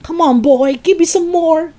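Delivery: put-on high, pushy old woman yelling; demanding yell. A narrator's reading. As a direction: yell impatiently at the boy. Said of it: "she yelled".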